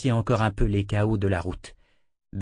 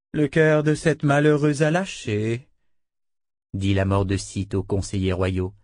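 a hint of formal, menacing condolence; lightly voiced mistress, polite but in charge; coolly commanding Dena; 3 semitones higher than usual. Dena addresses the royal advisers, coolly commanding.

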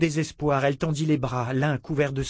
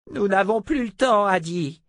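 put-on urgent old sorcerer; 8 semitones higher, 4 dB louder than usual. Zed insists.

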